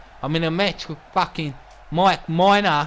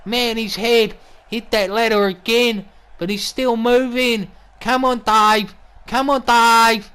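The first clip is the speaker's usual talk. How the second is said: higher, rising ringside excitement; urgent cheering; 4 semitones higher, 4 dB louder, slower than usual. Acted. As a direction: urge the battered fighter on, stretching it out. Commentator urges on a battered wrestler.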